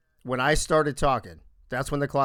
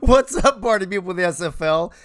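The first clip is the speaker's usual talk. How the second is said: hype intro redo; 3 semitones higher, 5 dB louder than usual. Acted. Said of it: "Next week, we'll do it like that".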